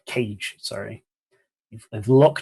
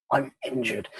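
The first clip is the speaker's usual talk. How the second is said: injured voice. Acted. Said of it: "That's my injured voice".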